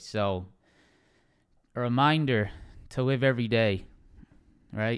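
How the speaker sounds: moved, emotional voice touched with grief. On stream, telling viewers a high school friend just died, getting emotional. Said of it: "I'm getting emotional".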